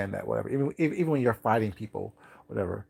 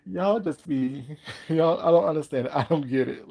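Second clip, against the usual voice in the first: laughing disbelief; 4 semitones higher than usual. Retold or imitated. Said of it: "I'm like".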